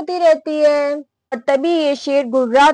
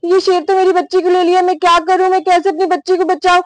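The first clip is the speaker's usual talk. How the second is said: higher, hurried mock panic; panicked; 4 semitones higher, faster than usual. Mother fears for her child taken by lion, panicked. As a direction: voice a frantic mother, lightly acted. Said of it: "Sanjana बहुत ज्यादा घबरा जाती है".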